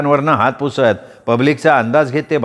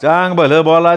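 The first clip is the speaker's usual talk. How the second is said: shout; 4 semitones higher, 3 dB louder than usual. A narrator's reading. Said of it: "नामा ओरडला".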